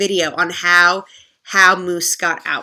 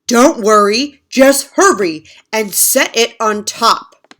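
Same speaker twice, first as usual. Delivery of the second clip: bossy; 7 dB louder than usual. Acted. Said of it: "Moose said".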